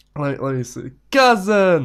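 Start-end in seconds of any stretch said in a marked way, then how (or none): 1.2-1.9 loud, high, full-throated shout, all the air out. Answering a request to say a word loudly: shouting at the top of lungs. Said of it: "say at the top of your lungs".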